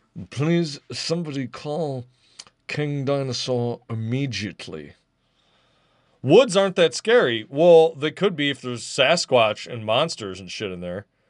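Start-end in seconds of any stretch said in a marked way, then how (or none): 0.3-4.9 slow, light touch of British accent. Repeating a line he just said, now in a slight british accent. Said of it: "I'll say that with a slight British inflection".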